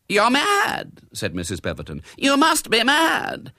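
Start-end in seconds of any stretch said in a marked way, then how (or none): 0.1-1.0 high, loud retort; shrill-pitched fury; outraged disbelief. A narrator's reading. Accused hostess hurls back an insult. 2.2-3.5 high, loud, drawn-out retort; high-pitched fury; outraged disbelief. A narrator's reading. Accused hostess hurls back an insult.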